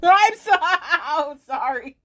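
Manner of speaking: breaking into helpless laughter; laughing apology. Real, not acted. Streamer cracking up at the game dialogue, laughing apology.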